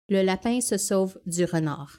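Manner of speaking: Quebec French, flatter vowels; French Canadian accent. Shown as a demonstration. Repeating the demo in a Quebec accent. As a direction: say it again like a Quebecer. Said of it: "I'm gonna go again with the French Canadian".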